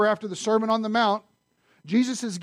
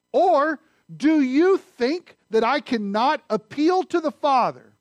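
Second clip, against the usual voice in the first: declaiming Jesus; 6 semitones higher, 5 dB louder, slower than usual. Acted.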